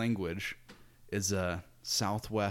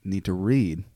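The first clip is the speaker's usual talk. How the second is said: higher Southern drawl broken by laughter; joking Southern accent; 5 semitones higher, 8 dB louder, slower than usual. Retold or imitated. Missionaries preaching to people in a joking Southern accent. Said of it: "jokingly talk in a Southern accent".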